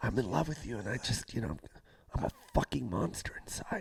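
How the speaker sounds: dazed, half-awake, soft, breathy whisper. Imitating Mark Ruffalo confessing love: whispering Mark Ruffalo impression. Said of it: "he's always whispering".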